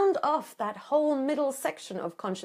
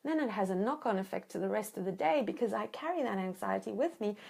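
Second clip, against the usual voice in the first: gentle calm statement; 5 dB quieter than usual. Shown as a demonstration. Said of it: "So when you say".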